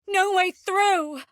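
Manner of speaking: high, loud, drawn-out cry; frustrated cry. Acted. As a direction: call out the dead end in frustration. Calling out at a blocked path.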